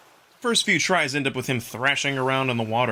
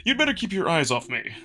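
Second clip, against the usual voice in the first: wolf Amicus. Acted. Wolf Amicus catching his breath after the race, playful role voice.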